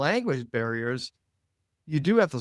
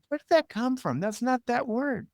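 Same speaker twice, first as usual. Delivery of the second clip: surprised; 9 semitones higher than usual. Retold or imitated. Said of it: "I'm like".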